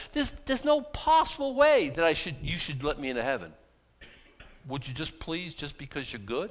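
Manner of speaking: begging sinner. Retold or imitated. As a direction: plead for mercy, then sink into a hush. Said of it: "You beg".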